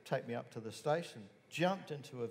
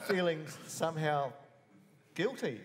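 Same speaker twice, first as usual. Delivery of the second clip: rueful laugh; 4 semitones higher than usual. Real, not acted. Laughing at own guilt.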